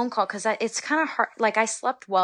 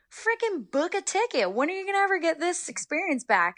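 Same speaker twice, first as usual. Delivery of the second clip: much higher, urging mock coach voice; imitating college coach; 11 semitones higher than usual. College coach urging her to book the flight, higher hammed-up voice. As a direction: play the coach pushing her to go.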